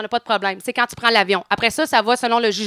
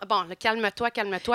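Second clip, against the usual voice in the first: softer, self-soothing mutter; calming herself quietly; 3 semitones lower, 8 dB quieter than usual. Retold or imitated. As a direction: talk yourself down at the customs counter. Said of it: "Je me demande".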